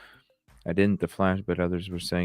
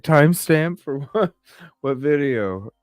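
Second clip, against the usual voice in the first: high, louder puzzled questions; mock bafflement, pitched up; confused; 9 semitones higher, 6 dB louder than usual. Retelling confusion at a viewer's request, puzzled. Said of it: "I just was like".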